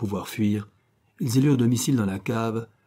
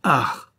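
gleeful ah; 4 semitones higher, 5 dB louder than usual. Acted. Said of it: "se réjouit le lieutenant".

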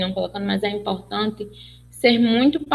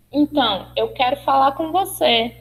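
attention-getting address; 4 semitones higher than usual. Shown as a demonstration. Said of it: "chama a atenção dela".

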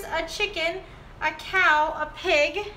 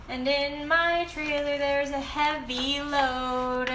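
put-on reading to a toddler; slower than usual. Reads picture book aloud.

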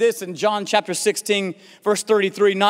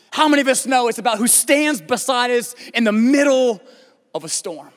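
driving, emphatic sermon delivery; emphatic preaching; 3 semitones higher than usual. Acted. Preacher to congregation on who stands beside us, emphatic preaching. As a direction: preach it with building conviction.

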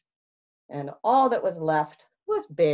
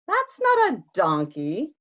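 indignant protest; 4 semitones higher, 4 dB louder than usual. Acted. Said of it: "cried Bear".

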